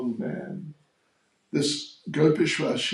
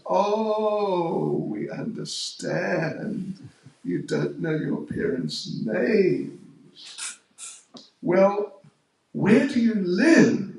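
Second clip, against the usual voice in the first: slow mock sympathy, then a louder, higher demand; sarcastic; 5 semitones higher, 3 dB louder, slower than usual. Gopis grilling the stranger girl, teasing then demanding. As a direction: tease her, then press hard with the question.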